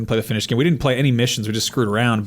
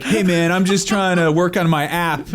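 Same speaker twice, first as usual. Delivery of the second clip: tech bro voice; 3 semitones higher than usual. Retold or imitated. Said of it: "stupid tech bro".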